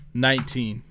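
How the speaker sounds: usual speaking voice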